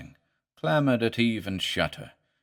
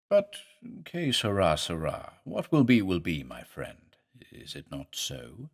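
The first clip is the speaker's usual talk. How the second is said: sinister professor; 4 semitones lower than usual. Acted. Professor lures visitor to garden.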